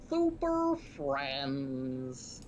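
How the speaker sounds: slow, grand club announcement; slow announcer voice. Pretend. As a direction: stretch it out like a host.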